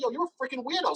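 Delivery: high-pitched mock indignation; retold cursing out. Man retelling how he cursed out his host, indignant. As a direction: act out telling him off. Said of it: "I start cursing him out".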